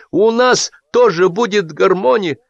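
high, slow call for attention; shout. A narrator's reading. Excited groom calling the guests to attention. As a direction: rise up and call the table to order. Gerasim announces.

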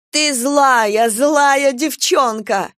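loud, high, slow hysterical scolding; hysterical rage. A narrator's reading. Stepmother screams at her stepdaughter in hysterics. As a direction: lose it and scold the girl. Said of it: "Шейла впала в истерику".

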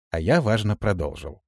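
usual speaking voice

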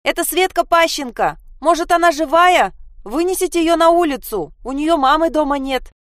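put-on girl shouting. Sasha shouts down to the policeman about her friend. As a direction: yell it down over everyone, desperate. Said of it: "Саша сверху крикнула".

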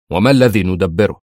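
tense, defensive question; nervy. A narrator's reading. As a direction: ask back with a touch of edginess. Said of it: "قال في عصبية". (عصبية خفيفة)

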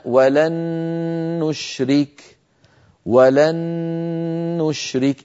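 ولن نشرك بنون مشددة مع غنة; أدغم نون لن في نون نشرك; إدغام بغنة. Shown as a demonstration. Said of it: "بالنسبة للنون الساكنة". (نون مشددة بغنة)

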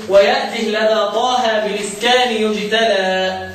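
إلقاء بطيء للبيت بهاء ساكنة في "ويأته"; تسكين هاء "ويأته" مع مد متأنٍ; إسكان الهاء. Shown as a demonstration. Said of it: "بالإسكان لمين". (ألقِ البيت على مهل وسكّن هاء "ويأته")

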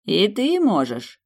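high, drawn-out taunt; mocking. A narrator's reading. Demon throwing heroine's plea back at her, mockingly. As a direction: throw it back with lazy mockery. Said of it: "насмешливо произнёс демон".

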